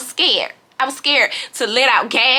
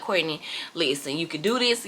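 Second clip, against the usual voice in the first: self pep talk; 6 semitones lower, 9 dB quieter than usual. Retold or imitated. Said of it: "I'm trying to calm myself down".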